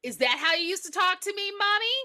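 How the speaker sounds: lightly voiced accusing child; wounded child. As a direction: needle mother like a hurt little boy. Voicing the child guilt-tripping his mother.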